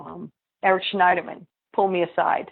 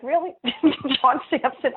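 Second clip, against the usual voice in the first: scoffing disbelief; 7 semitones higher than usual. Retold or imitated.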